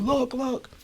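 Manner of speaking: high-pitched yell without real volume; mock yelling. A narrator's reading. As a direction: imitate a frantic yell, held back.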